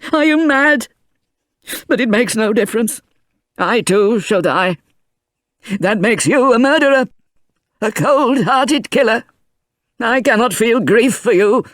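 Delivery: high, scolding grandfather's voice; angry old man. A narrator's reading. Grandfather scolding his unconscious grandson, angry. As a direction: berate him, hurt and furious. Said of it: "he said angrily".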